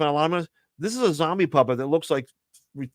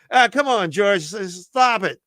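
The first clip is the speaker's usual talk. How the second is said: a louder, higher mock shout at the puppet; mild mock yell; 5 semitones higher, 4 dB louder than usual. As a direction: scold the puppet in a half-hearted yell. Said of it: "he's yelling at himself".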